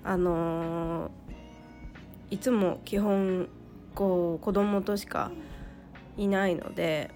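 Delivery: hoarse from a cold; raspy, worn-out cold voice. Real, not acted. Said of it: "ちょっと声がガラガラなんですけど".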